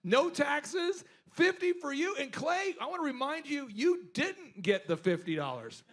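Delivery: boss's sly praise. Retold or imitated. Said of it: "He used to say these things".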